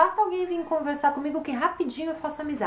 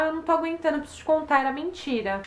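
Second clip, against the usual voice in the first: retold confession; 4 semitones higher, faster than usual. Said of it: "ligar pra pessoa e falar".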